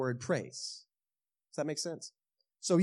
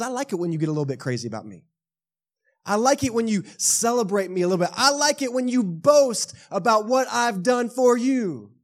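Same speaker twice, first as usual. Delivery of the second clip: God's delight; 5 semitones higher, 6 dB louder than usual. Acted.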